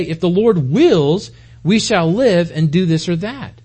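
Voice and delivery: slow, weighty reading of the verse, each word laid down; slow solemn quote. Shown as a demonstration. Preacher reading James to his church, slow and weighty. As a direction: spell the scripture out slowly for the congregation. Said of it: "Instead, you ought to say".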